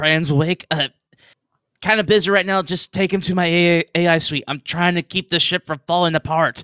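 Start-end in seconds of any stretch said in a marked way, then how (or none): 1.8-6.6 yelling over a PA, pitched much higher. The ship's ai answers a request over the pa, yelling through the pa. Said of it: "He's giving you some instructions, like what commands to put in and all that. And as soon as he finishes giving you those commands, / But you hear someone like yell through the PA, / like he actually s".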